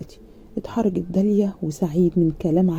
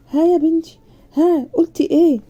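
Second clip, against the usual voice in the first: eager prompting; 7 semitones higher, 5 dB louder than usual. A narrator's reading. Father pressing for an answer.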